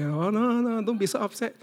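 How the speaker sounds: mock the peacemaking mother; goody-goody mother. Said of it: "Miss Goody Goody Two Shoe".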